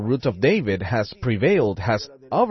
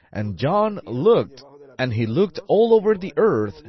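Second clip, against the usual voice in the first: rising preacher fervour; 3 semitones higher, 4 dB louder than usual. Acted. Preacher tells the church how John searched, building fervour. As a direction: climb into a fervent preaching cry.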